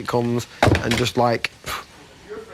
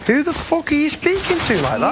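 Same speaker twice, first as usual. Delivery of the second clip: indignant challenge, pitched up high; angry retort; 8 semitones higher than usual. Real, not acted. The speaker firing back at Dina's warning, real indignant anger. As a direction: hit back hard at her threat. The speaker confronts Dina in argument.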